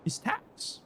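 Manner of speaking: soft whispered repeat of his tax; whispered echo. Acted. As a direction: breathe the words back with no voice. Echoing the NPC line mockingly.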